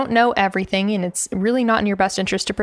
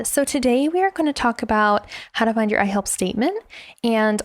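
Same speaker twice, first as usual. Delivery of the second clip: not authoritative; 4 semitones higher than usual. Shown as a demonstration. Coach opens a client call as example A, not authoritative. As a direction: greet eagerly in a high, lilting voice, unsure of your authority. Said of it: "One is not authoritative".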